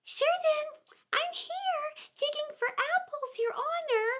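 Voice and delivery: very high Irish lilt; easygoing Irish gardener answering his master; Irish gardener answering the rabbit; Irish servant. A narrator's reading. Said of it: "a voice she'd never heard before".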